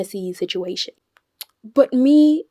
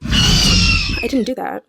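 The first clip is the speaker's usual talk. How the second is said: shrieked denial, stretched out; a drawn-out high scream of denial; 6 dB louder, much slower than usual. Acted. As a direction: shriek it in outrage. Exploding at Y N.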